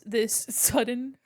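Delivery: normal talking voice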